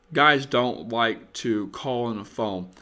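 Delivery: ordinary talk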